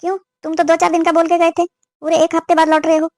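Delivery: cross, accusing mother; mildly angry. Acted. Mother scolds her son for returning late, mildly angry. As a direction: take him to task with restrained annoyance. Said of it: "आप गुस्से में क्यों हो?".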